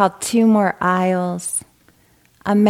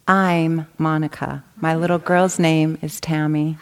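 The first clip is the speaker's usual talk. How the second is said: punchline laugh. Acted. Mother revealing her own name, laughing. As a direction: let the laugh spill over the punchline.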